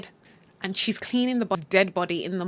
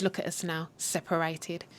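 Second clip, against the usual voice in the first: low, very soft acted whisper; hushed, vengeful parting words; whispered farewell; 4 semitones lower, 11 dB quieter than usual. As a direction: whisper it privately to the dead man. Widow leans over the body.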